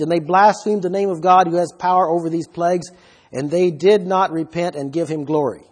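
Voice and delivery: scripture reading. Acted. Reads scripture aloud.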